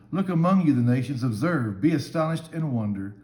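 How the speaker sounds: loud and commanding, like God announcing; booming proclamation. Acted. Preacher voicing God's proclamation to Habakkuk, loud and commanding. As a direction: call it out to the nations with power.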